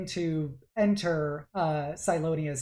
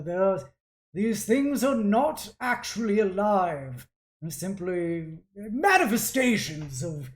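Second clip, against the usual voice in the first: louder, higher, emphatic reassurance; dismissive artificer father; 4 semitones higher, 6 dB louder than usual. Acted. Father assuring his daughter it is not alive, dismissive. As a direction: brush off the objection with authority. Game master plays the father.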